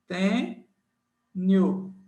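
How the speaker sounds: "tem", pause, "nhu"; split by syllables. Shown as a demonstration. Teacher finishes dividing tungstênio for students, split by syllables. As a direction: sound out TEM and NHU as separate beats. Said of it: "pra formar sílaba".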